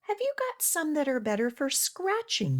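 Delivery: dog voice. Acted. Dog asks shopkeeper in story.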